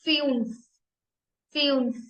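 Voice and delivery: फ्यून्फ with a rounded ü, "fyunf"; teacher drills फ्यून्फ; German fünf. Shown as a demonstration. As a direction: stress the ü in फ्यून्फ. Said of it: "ये यू की कैसे sound आ रही है".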